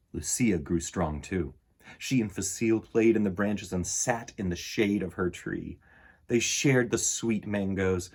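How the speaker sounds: put-on gentle read-aloud for children; storybook reading. A narrator's reading. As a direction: read it like bedtime story time. Reads picture book aloud.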